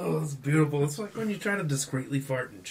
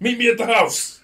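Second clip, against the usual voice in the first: loud call; 11 semitones higher, 10 dB louder than usual. Real, not acted. Joking loud banter.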